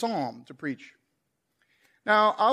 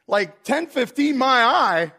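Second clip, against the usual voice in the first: laughing; 4 semitones higher, 4 dB louder, slower than usual. Real, not acted. Joking about service overrun.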